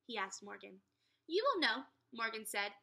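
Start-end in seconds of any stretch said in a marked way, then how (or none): 1.3-1.9 mysterious. A narrator's reading. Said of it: "very mysteriously".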